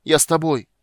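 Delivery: loud high cry, voice breaking; cracking shout. Acted. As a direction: call out desperately, voice cracking. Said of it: "кричал он срывающимся голосом".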